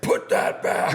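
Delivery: high yell, re-enacting a shout out the window; retold yell. Bar musician shouting out the window at a hat thief, retold yell. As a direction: yell it high, as in an animated retelling. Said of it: "I yelled out the window".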